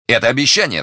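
high, loud delighted exclamation; overjoyed cry. A narrator's reading. Young man hearing hope in her words, overjoyed. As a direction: cry it out, beside yourself with joy. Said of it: "вскричал Д'Артаньян вне себя от радости".

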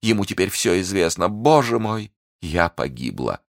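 touch of anguish, slowing at the end; despairing Milady. Acted. Prisoner who betrayed her secret, mildly anguished, then sinking. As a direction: lament rising to a cry, then sinking.

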